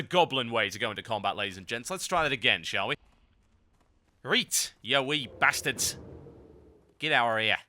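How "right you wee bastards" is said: Geordie taunt. Acted. Geordie-style taunt at gnomes.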